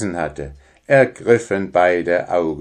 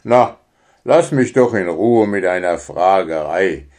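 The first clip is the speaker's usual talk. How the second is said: grumbling; 4 dB louder than usual. Acted. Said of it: "maulte Wüli".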